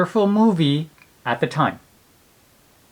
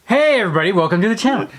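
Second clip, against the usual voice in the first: intro voice; 4 semitones higher, much faster than usual. Acted. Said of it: "I will do the intro".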